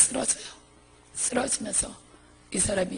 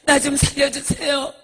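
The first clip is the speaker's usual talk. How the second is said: higher, crying plea with gasping breaths; tearful begging; 4 semitones higher, 4 dB louder than usual. Retold or imitated. Monk promising to preach if spared, wailing for mercy. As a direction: plead desperately through sobs.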